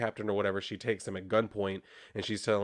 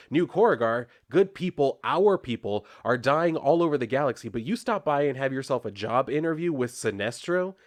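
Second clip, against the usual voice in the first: raised-voice retelling of an indignant outburst; mock yell; 3 semitones higher, 3 dB louder than usual. Lantern scolding her for joining the enemy, mock yell. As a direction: cut in loudly, acting out an accusation. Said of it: "and then he yells".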